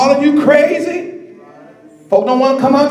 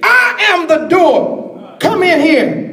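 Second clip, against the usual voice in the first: preaching voice of Jesus; 3 semitones higher, slower than usual. Acted.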